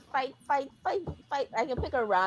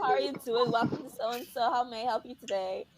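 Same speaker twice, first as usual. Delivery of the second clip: customer service voice; 4 dB louder than usual. Retold or imitated. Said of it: "customer service voice".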